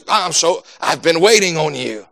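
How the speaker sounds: a hint of a wise old sage. Sage greeting whoever walks into his big room, lightly voiced old sage. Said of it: "some sacred old sage".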